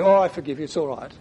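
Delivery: Oh, I forgive you tossed off with a sigh, trailing away; grudging forgiveness. Shown as a demonstration. Preacher mocking insincere forgiveness: offhand, dismissive. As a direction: say it breezily so it rings hollow. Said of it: "If I said it like that".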